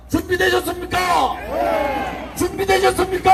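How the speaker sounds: rally the crowd, shouting; shouted call to crowd. Real, not acted. Calling crowd before chant.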